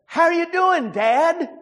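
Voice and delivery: put-on a light Hispanic accent as the scam caller. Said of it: "a voice with an Hispanic accent".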